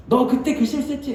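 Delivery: mock stern scolding; scolding accusation. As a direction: catch him out in his mistake. Imagined scolding God.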